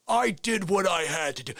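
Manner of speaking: firmer, fuller-voiced insistence; rising defiance. Colonel pressed by the lawyer, defiant and building. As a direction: push back, temper starting to show. Colonel's answer, now escalating.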